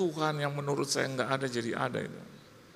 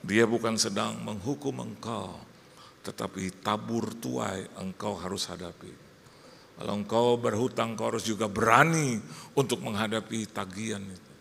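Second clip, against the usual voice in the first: lightly voiced mother, lower and measured; solemn mother; 5 semitones lower than usual. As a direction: counsel gravely, like God's own sibling. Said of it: "kayak saudaranya Tuhan gitu loh". (ibu menasihati dengan khidmat, suara agak rendah)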